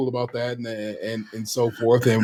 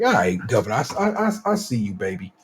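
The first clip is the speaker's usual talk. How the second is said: teasing; 7 semitones lower than usual. Retold or imitated. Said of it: "I'm like".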